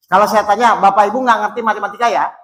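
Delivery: the question again, rattled off quickly. Shown as a demonstration. Preacher repeats his question to the congregation, quickly. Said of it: "Saya ulang ya".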